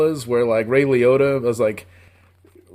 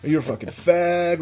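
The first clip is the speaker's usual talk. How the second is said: sneering bully; 4 semitones higher than usual. Retold or imitated. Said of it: "they're like".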